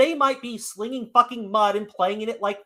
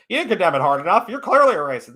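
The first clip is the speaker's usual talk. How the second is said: mocking accuser; 5 dB louder, faster than usual. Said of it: "how many times do they get told".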